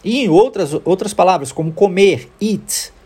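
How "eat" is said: "eat" with a long ee vowel; isolated "eat", clear English ee. Shown as a demonstration. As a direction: model "eat" with EA sounding like ee. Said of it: "Também escreve-se com E A".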